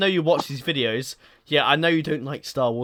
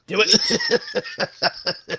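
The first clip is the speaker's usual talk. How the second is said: high, menacing villain rasp; scary Sith Lord urging someone on; terrifying emperor; 6 semitones higher than usual. Acted. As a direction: raise the pitch into an evil command. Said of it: "That's terrifying".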